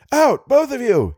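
high, drawn-out urgent order; shouted command. A narrator's reading. Driver orders both companions out, shouting. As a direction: shout them out of the car. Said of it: "he shouted".

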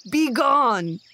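loud furious bark of a bear; a bear shouting a loud angry dismissal. Acted. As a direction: throw the beggar out with one word. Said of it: "the angry bear".

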